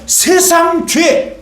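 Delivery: very slow, stretched words; drawn-out emphasis. Acted. Preacher stretching the words for the congregation. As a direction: draw out 세상 죄 slowly.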